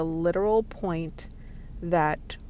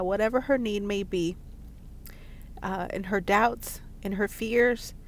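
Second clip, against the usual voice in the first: prayer. Real, not acted. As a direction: pray gently over the listener. Prays for the listener.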